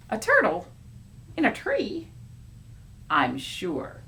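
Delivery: animated storybook character; puzzled, bright character; lightly voiced story character.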